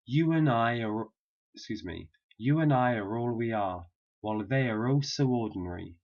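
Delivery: whole sentence linked smoothly; connected speech. Shown as a demonstration. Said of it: "the whole sentence is this".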